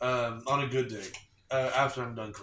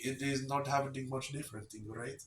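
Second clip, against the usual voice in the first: mock Indian accent; 4 semitones higher, 4 dB louder than usual. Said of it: "do the accent".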